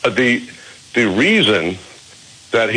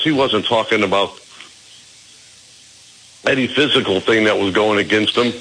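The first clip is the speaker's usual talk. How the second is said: talking while chewing a walnut; mouth full. Real, not acted. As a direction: chew and talk at once. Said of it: "so I'm gonna try to talk and chew".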